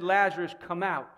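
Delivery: loud on the name, firm after; voice of command. Retold or imitated. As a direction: order it outright, with no question. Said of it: "shouted it with a loud voice of command".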